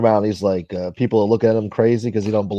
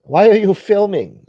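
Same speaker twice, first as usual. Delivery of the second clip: much higher, louder, slow indignant question; mock confrontation; 10 semitones higher, 5 dB louder, slower than usual. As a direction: play the annoyed local calling him out. Mocking passerby confronting him.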